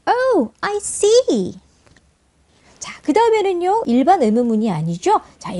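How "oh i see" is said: high, linked reading leaning on "see"; slow, exaggerated "see" as the main beat; stress on SEE. Shown as a demonstration. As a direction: draw out "see" high, then let it fall. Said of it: "주요 강세는 C에 두고".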